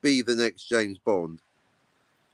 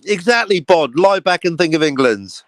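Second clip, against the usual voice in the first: loud mock command; 7 dB louder than usual.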